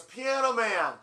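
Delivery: high, loud concert shout; heckler's yelled request. Retold or imitated. Concertgoer yells for a hit mid-show, loud heckling shout. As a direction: holler out a song title from the crowd.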